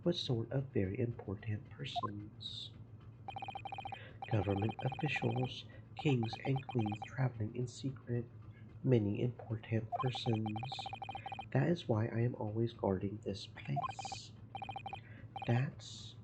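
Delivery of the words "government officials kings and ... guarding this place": a hint of a Russian accent, gruff and proud; broken-English Russian sailor. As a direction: play the touchy ship's guard, lightly accented. Guard lists the passengers.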